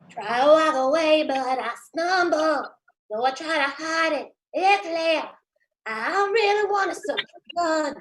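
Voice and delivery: a hint of husky soul crooning; a soul singer as a vampire. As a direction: croon it lazily like a soul singer. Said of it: "Macy Gray if she were a vampire".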